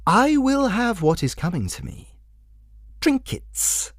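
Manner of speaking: a creepy clown savouring each word; menacing jester. Acted.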